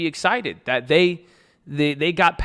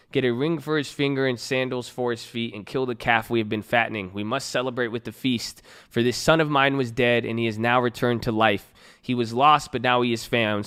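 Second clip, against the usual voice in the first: scripture reading; 2 semitones lower than usual. Acted. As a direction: read the parable steadily to the congregation. Reads prodigal son parable aloud.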